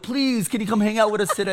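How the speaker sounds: begging. Retold or imitated. Boys outside asking mom for their friend, begging. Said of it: "I used to beg his mom".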